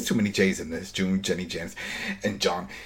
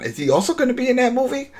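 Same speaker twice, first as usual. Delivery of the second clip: high-pitched, laughing through the questions; amused incredulity; 9 semitones higher, 4 dB louder than usual. Real, not acted. Host joking about characters floating into the movie, laughing incredulously. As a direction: joke in mock disbelief, breaking into laughter.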